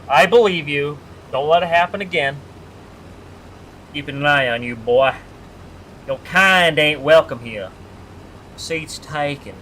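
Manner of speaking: lightly voiced mock Southern plantation owner; a hint of a menacing Southern landowner; old Southern plantation owner. Teasing chatter Ben, streamer does a mild Southern plantation owner impression. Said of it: "impression of a old Southern plantation owner".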